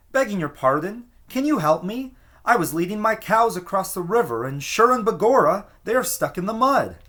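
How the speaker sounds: high, urgent pleading little man with an Irish lilt; pleading plea. A narrator's reading. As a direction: beg anxiously for help, voice up high.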